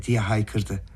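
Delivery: ordinary delivery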